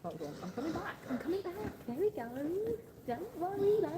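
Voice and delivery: high, lilting reassurance; reassuring pet talk. Real, not acted. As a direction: soothe an animal with a rising little voice. Reassuring the pig directly.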